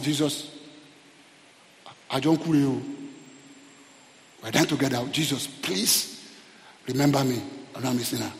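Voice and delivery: low, soft, halting appeal; subdued dying plea. Retold or imitated. Preacher voicing the thief beside Jesus, subdued dying plea. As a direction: imitate a dying man's quiet plea, with pauses.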